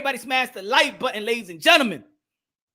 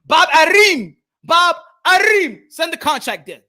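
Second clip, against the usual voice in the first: loud call to Bob Arum, high and urgent; 4 semitones higher, 4 dB louder than usual. Real, not acted. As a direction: shout his name across the room.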